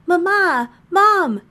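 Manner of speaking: put-on high, excited kids calling Mama; children yelling. A narrator's reading. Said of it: "and they are yelling".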